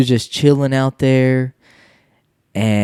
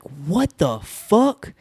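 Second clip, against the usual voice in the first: disbelief; 4 semitones higher, 6 dB quieter, much slower than usual. Retold or imitated. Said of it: "And I was like".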